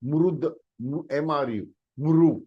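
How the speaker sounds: mrud then mru said slowly as a sound check; spelling out mru. Shown as a demonstration. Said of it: "म के नीचे रुकारांत".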